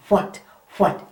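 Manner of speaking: What said with a puff of air on the wh; breathy what. Shown as a demonstration. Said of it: "put your hand up to your mouth, and you say".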